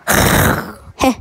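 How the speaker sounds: rough noise to startle viewers; playful scare noise. Pretend. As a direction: try to scare them with a throaty noise. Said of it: "did I scare you?".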